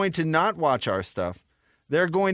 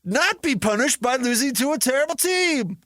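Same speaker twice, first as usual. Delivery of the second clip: high, slow dramatic radio voice; a cliffhanger teaser from fifties radio; old-timey announcer; 9 semitones higher, slower than usual. Pretend. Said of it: "hear the old-timey voice guy".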